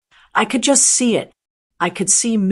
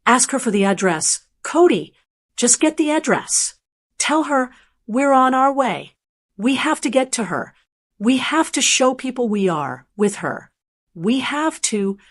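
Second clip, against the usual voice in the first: a touch of high, sharp, panicked daughter-in-law; 3 semitones higher than usual. Retold or imitated. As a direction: urge him on in a hurried, sharp panic. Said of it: "high and sharp and panicked".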